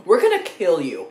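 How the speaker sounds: hammed-up threat, stressing gonna; mock threat. Reviewer jokingly threatening the Pillsbury Doughboy, mock menace. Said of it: "that is a threat".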